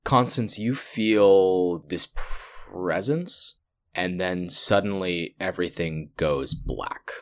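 measured scene-setting narration; game master narration. A narrator's reading. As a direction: paint the vision for the player. GM narrates vision.

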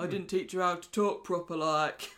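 lightly voiced apologetic dad; a hint of a sheepish father; Jackson. Father excusing how his daughter talks, lightly acted apology. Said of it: "and he goes".

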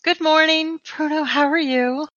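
a sunny receptionist calling good morning to the whole office; bright sunny voice. Acted. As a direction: chirp it like the office sweetheart. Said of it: "a very bright, sunny voice".

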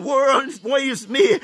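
a man crying out slowly, woe is me. Retold or imitated. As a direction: cry it out slowly, in despair. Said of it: "who is crying".

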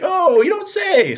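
high, loud and slow sarcastic fake innocence; mock feigned surprise. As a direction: drawl it like he knows nothing. Robber playing dumb, mocked.

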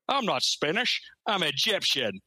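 slurred Scottish impression, high start then dropping; Sean Connery. The mentor correcting his pupil in close-up, Scottish accent. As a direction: mimic the thick Scottish film-star accent. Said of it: "fucking Sean Connery's face. He's like".

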